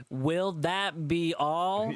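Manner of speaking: very slow, every word spelled out; over enunciating. Acted. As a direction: speak as if to someone deaf. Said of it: "enunciated clearly like I was deaf".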